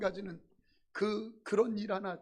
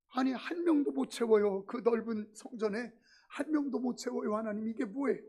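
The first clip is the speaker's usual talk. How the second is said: whining prayer; 2 semitones higher than usual. Retold or imitated. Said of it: "하소연하면서 이렇게 기도하겠어요".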